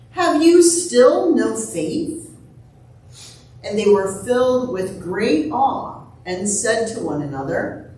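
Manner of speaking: measured, solemn scripture reading; gospel reading. A narrator's reading. Pastor reads the gospel to the congregation, measured reading. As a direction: read scripture out in unhurried, separated phrases.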